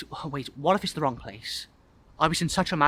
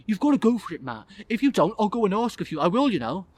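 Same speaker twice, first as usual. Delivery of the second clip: higher-pitched insistent lad; nagging boy; 6 semitones higher, 3 dB louder than usual. Acted. Boy pushing guest toward crush, nagging voice. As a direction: nag and threaten like a bossy kid.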